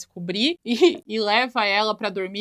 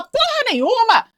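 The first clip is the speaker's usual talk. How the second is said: furious retort; 12 semitones higher, slower than usual. Retold or imitated. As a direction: spit it back at him with a high, drawn-out yell. Rachel xinga o segurança. (Rachel rebate o segurança com grito agudo e arrastado)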